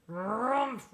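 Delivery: grumpy bear grunt; a short huffy growl from the old bear. Acted. Old Bear grumbles back at his friend, a gruff grunt. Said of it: "growled Old Bear".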